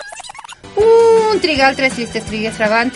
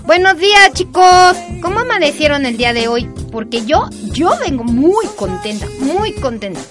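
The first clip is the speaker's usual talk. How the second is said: overly cheerful; 4 semitones higher than usual. Acted. Adela arrives overly cheerful.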